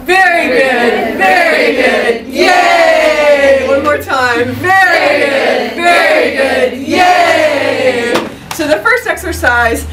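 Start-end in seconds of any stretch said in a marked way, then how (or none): 0.0-2.3 big slow shout of approval; excited praise. Real, not acted. Praising class after exercise. 2.3-3.7 loud happy yay; joyful shouted cheer. Real, not acted. Cheering the class. 3.7-6.9 big slow shout of approval; excited praise. Real, not acted. Praising class after exercise. 6.9-8.1 joyful shouted cheer; cheering yay. Real, not acted. Cheering the class.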